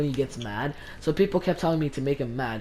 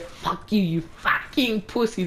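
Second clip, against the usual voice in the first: raised, squeaky mocking imitation; high, drawn-out mock outburst; mock high-pitched voice; 7 semitones higher, slower than usual. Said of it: "like, the highest pitched voice".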